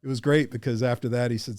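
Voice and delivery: ordinary talk, nothing marked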